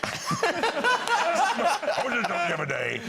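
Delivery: put-on old-time comic telling a gag; put-on stage voice for a doctor joke; comedian impression. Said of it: "she made me do the impressions".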